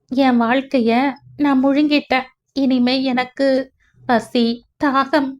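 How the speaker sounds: understated grief, words breaking into pauses; a touch of tearful bitterness; on verge of sobbing. Acted. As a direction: let mild despair well up as you speak. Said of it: "விம்மல் வெடித்து கிளம்பியது".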